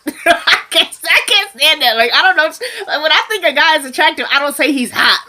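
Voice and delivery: high-pitched, laughing exasperation; laughing while talking. Real, not acted. Mocking teens' "so hot" talk, laughing hard. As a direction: crack up while protesting, voice jumping up. Cracking up at quote.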